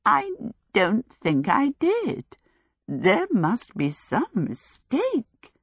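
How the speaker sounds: slow, croaky voice; croaking. Acted. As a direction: croak it out in dismay. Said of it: "Sophie croaked".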